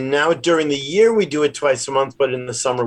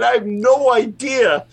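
trying a voice; 9 semitones higher than usual. Retold or imitated.

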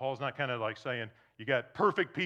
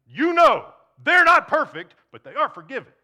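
higher, louder mocking punchline; mocking slogan; 9 semitones higher, 18 dB louder than usual. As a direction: throw the slogan back with a sneer. Mocking the speeding driver.

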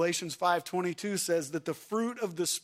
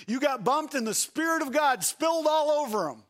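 preaching at full force, loud and high; fervent shouted preaching; rising shout; 6 semitones higher, 3 dB louder than usual. Real, not acted. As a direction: belt it out to the congregation. Preacher builds to shouted climax.

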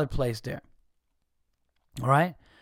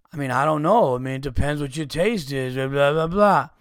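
mock dismissive; 2 semitones lower, 3 dB louder than usual. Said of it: "Not trying to be a dick".

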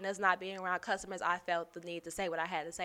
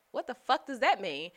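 higher and louder, offended; offended demand; 6 semitones higher, 6 dB louder than usual. Retold or imitated. To the coworker who used a slur, higher and louder offended demand. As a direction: snap back in disbelief.

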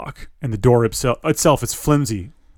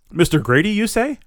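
higher, frightened call; shrill with fear; 9 semitones higher than usual. A narrator's reading. Narrator voicing a scared player, higher pitch. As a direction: call out scared to a still body. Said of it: "Fear making your voice sound shrill".

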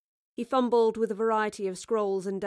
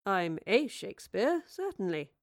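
pleasant. Acted. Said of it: "he said pleasantly".

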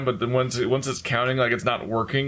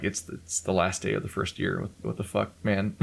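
exasperated mutter; 3 semitones lower, 6 dB quieter than usual. Retold or imitated. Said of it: "And I'm like".

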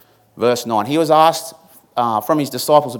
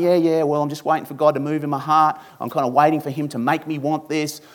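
glib, offhand mock excuse; 2 semitones higher than usual. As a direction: toss it off like a casual excuse. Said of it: "kind of glibly going".

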